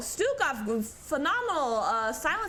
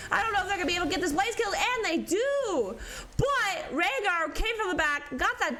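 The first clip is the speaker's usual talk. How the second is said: excited play-by-play; 4 semitones higher than usual. Real, not acted. Caster calling a teamfight, excitedly. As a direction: build the tension of the chase.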